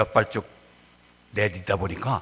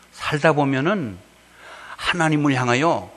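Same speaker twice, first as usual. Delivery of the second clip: usual speaking voice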